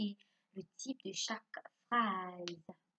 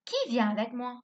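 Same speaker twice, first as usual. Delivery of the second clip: louder "Qui vient avec moi?" with the voice raised on "Qui"; question tone; 2 semitones higher, 6 dB louder than usual. Shown as a demonstration. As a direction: ask it clearly, hitting "Qui" hard. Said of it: "bien, le ton".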